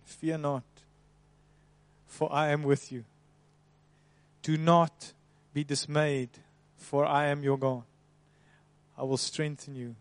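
a hushed, tender reading of scripture; soft scripture reading. Acted. Reads Isaiah promise aloud.

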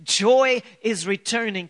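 rising prophetic declaration, slowing on joy; declaring over them. Real, not acted. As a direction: proclaim it over the congregation. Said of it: "I want to speak this over you".

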